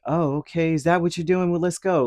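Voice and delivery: high, bright-eyed mock going along; mock eager agreement. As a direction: play the pushover who says yes too fast. Mock-naive reply to manipulator.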